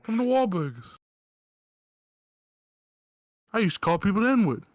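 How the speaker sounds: hammy Mark Wahlberg impression. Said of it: "Mark Wahlberg voice changer".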